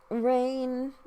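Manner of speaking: "Rain" sung with a little A sound at the end. Shown as a demonstration. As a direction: stretch "Rain" with a faint A sound trailing off. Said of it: "she says it like".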